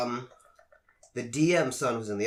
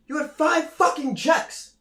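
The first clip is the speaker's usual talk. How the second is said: very high, slow, loud mock outrage; hammed-up exasperated manager; mocking boss; 5 dB louder, slower than usual. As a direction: squeal it in disbelief. Manager mocking employee's stats.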